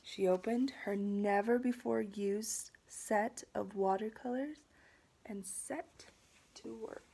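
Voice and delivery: deliberate storybook narration, easing off at the end; picture-book reading. A narrator's reading. Teacher reading to students about watercolors, storybook narration. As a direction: read it expressively to children.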